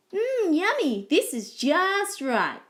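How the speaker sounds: high, savouring delight, slowing down. A narrator's reading. Goldilocks tasting Baby Koala's toast, delighted. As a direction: savour it with relish.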